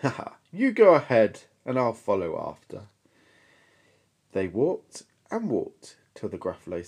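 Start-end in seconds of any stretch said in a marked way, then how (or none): 0.0-2.9 mock laughter. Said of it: "bursting with laughter".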